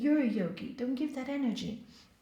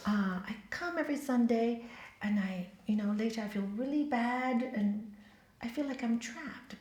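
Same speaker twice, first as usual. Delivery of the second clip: said nicely; 3 semitones lower, 6 dB quieter than usual. Shown as a demonstration. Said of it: "to say it so nicely".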